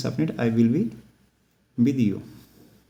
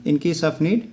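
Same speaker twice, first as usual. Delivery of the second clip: slow model phrase; 3 semitones higher than usual. Shown as a demonstration. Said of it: "teacher models the phrase".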